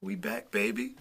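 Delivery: gleeful boast. Acted. Boasting they are back together.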